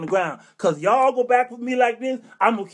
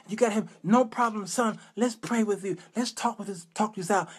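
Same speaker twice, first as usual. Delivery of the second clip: soothing pastor; 5 dB quieter than usual. Acted. Pastor soothing the confessing man.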